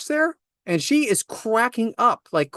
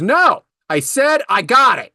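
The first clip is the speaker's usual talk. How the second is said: slow, louder, curt refusal; mean snap; 4 semitones higher, 5 dB louder, slower than usual. Retold or imitated. Imitating the mean shopper refusing help, slow and louder. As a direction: bite back at the helpful stranger. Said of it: "And she's mean, real mean".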